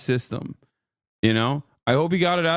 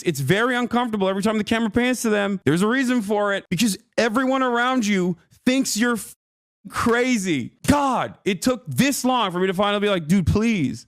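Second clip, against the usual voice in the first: higher-pitched, heated pleading; exasperated outburst; 4 semitones higher than usual. Real, not acted. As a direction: let the frustration burst out at him. Exasperated outburst at absent rival.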